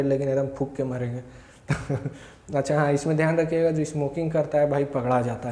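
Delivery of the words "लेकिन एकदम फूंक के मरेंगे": laughing. Real, not acted. Joking about the breath test.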